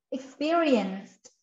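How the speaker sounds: "Experienced." drawn out slowly, ending in a released t; final sound articulated. Shown as a demonstration. Teacher showing learners the ending sound, "Experienced." with its final t pronounced. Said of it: "There's an ending sound".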